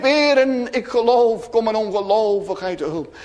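high start, easing down as it ends; retold outcry. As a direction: call out lightly, imitating a pleading believer. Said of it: "Dat uitriep".

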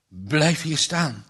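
slow, a touch of a tremble; mildly trembling order to his wife. Acted. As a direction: hold back your fear. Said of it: "met trillende stem".

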